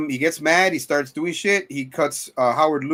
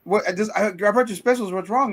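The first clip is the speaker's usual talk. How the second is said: high confused voice; 7 semitones higher than usual. Retold or imitated. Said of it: "he's like".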